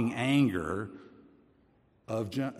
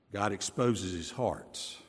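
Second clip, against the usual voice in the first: slow quiet stress; 4 semitones lower, 5 dB quieter, slower than usual. Shown as a demonstration. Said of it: "repeated for emphasis".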